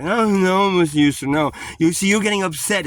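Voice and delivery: high, loud mock-alarmed officer; alarmed cop. Cop reacts to his outburst, loud and high. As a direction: imitate the cop crying out at him to stop. Heated backyard argument with cop.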